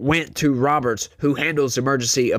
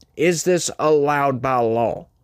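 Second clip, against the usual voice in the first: ordinary delivery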